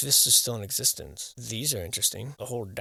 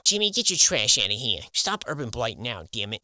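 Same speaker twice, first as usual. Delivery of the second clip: loud, scolding shout at Jimmy; mock yell; 6 dB louder than usual. Yelling at a kid who dropped trash, mock shout. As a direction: bark it at a litterbug.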